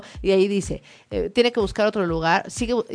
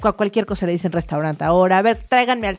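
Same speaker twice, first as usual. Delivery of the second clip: super rude; 2 semitones higher, 4 dB louder than usual. Acted. Clara berates the restaurant staff, mock super aggressive. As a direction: play an aggressive customer demanding the chef. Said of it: "se pone súper agresiva, súper grosera".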